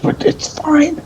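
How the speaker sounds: very high, squeaky insistence that all is well; mock reassurance. Player falsely reassures after tempting fate.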